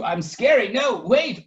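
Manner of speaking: hurt surprise; taken aback. Acted. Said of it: "Waffle uttered".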